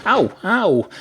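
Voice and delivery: high "ow, ow" of sudden pain; pained yelp. Real, not acted. Host rolls chair wheel over his bare foot, pained yelp. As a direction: yelp twice at a hurt foot. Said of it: "accidentally rolled his, uh, swivel chair, uh, wheel over his foot".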